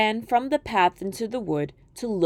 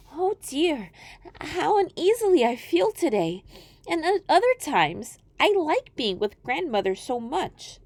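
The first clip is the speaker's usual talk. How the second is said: put-on high, worried girl voice; a child sensing something wrong; uneasy little girl; 6 semitones higher than usual.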